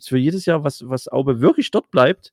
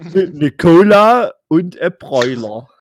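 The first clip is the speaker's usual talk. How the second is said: customer ordering; 4 semitones higher, 8 dB louder, slower than usual. Pretend. Acting out ordering at counter.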